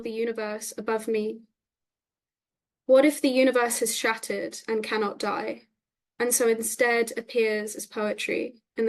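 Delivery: measured poem recital with deliberate line breaks; poetry reading. Acted. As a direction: read it as verse, each phrase falling evenly. Reads own poem aloud.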